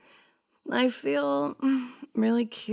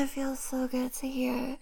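whispering; 7 dB quieter than usual. Acted. Intimate moment in roleplay.

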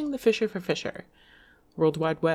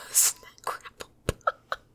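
slow giggly whisper; slower than usual. Real, not acted. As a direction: whisper it through a laugh. Giggling whisper after stumble.

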